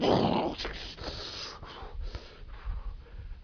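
long voiceless rushing whooshes; imitated storm noise. Preacher acting out the storm around Jesus, long whooshing noise. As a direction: imitate crashing waves and wind with breath.

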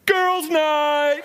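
high, loud, laughing cheer; excited shout. Retold or imitated. Preacher voicing a girl cheering up her crying friend, loud excited shout. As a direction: announce it like the best idea ever.

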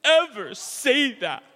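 high, loud, slow, crying protest of love; big sister sobbing to her baby sister, hammed-up; tearful big sister. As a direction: plead through tears like a heartbroken big sister. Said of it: "looks at her baby sister and goes".

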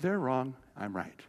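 soft, low and certain; hushed, steady child's certainty; quiet conviction. Retold or imitated. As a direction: say it calmly under your breath. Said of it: "I just go".

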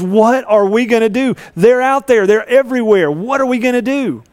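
a scared servant spotting the enemy army; panicked servant. Acted. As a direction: servant panicking to Elisha at the surrounded city. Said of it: "he goes back to Elisha and he goes".

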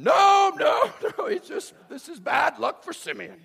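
high loud mock yell breaking into laughter; over-the-top stubborn dad yelling; hammed-up shout. Jacob shouts down the sons.

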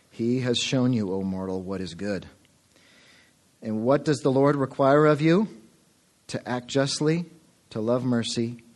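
measured, solemn Bible reading; scripture reading. Acted. Pastor reading Micah to the congregation, solemn reading. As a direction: read the prophet's words with weight.

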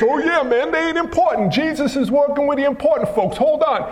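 hammed-up casual disciple; agreeing disciple. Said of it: "They said like this".

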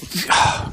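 short huffed breath; exasperated sigh. Acted. Preacher acting out divine anger, exasperated sigh. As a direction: let out a fed-up huff.

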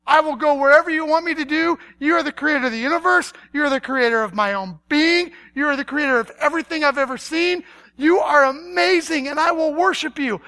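eager, hurried acclaim; acted effusive worship; gushing praise. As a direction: pour out devotion before the catch. Acts out eager praise before objecting.

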